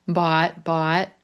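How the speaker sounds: "Bought" said as /pɑt/, clear open vowel; model pronunciation. Shown as a demonstration. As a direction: say "bought" slowly and cleanly. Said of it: "What color is that word?".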